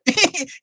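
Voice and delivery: squeaky jeering laugh; high mocking laugh. Mocking the viewer's comment.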